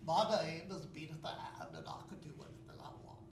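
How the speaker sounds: put-on little girl voice, trailing to a whisper. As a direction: play a cheeky little girl. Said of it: "You know what she says?".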